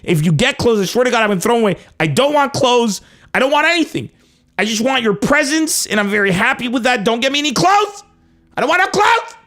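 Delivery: rising from firm insistence to a high, exasperated plea; building retold rant. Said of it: "I'm like".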